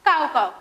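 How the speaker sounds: काव काव cawed loudly like a crow. Shown as a demonstration. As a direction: caw it out like a crow for the class. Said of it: "कावळा कसं ओरडतो?".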